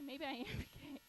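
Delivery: P=A; laughing through it. Retold or imitated. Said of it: "I was like".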